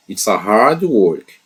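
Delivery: hard stressed, slow and deliberate; It's a hard work, with hard leaned on slowly; slow emphatic English. Shown as a demonstration. Teacher telling students, slowly stressing hard. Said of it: "É um trabalho duro".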